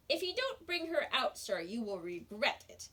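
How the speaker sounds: stern warning. Acted. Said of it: "which meant".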